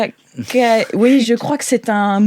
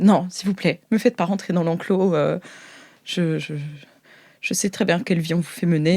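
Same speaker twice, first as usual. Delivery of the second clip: pleading; 4 semitones lower, 6 dB quieter than usual. Acted. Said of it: "Bridoul vous supplie".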